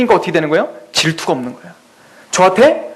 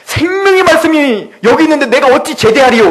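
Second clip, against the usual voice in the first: mock solemn joke; 5 semitones higher than usual. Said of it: "맨날 그 농담이 그거였어요".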